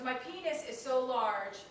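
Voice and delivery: slow mock Indian accent; imitated Indian accent. Imitating cab driver's boastful confession, mock Indian accent. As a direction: spell it out slowly in a clumsy Indian accent. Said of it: "it's the worst Indian accent".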